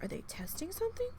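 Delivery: puzzled. Retold or imitated. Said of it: "I'm like".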